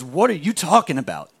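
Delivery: God asks, kindly confused; puzzled God. Retold or imitated. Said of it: "God looks at us with a really funny look and says".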